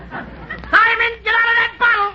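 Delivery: calling into a bottle. Pretend.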